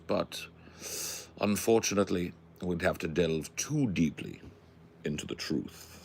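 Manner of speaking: put-on musing English accent with trailing phrase ends. Pondering a sticky question aloud, put-on English accent.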